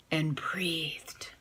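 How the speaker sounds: breathed-out whisper; breathy hush. A narrator's reading. Narrator whispering as the dog breathes on Small. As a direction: let it fall to a breath.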